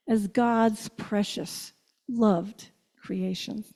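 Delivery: slow and hushed, savoring each word; softly lingering on precious and loved; tender refrain. Acted. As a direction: lay it down gently like a blessing. Tender refrain of God's love.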